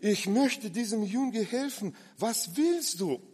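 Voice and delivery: kind helping woman. Retold or imitated. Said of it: "Sie hat gesagt".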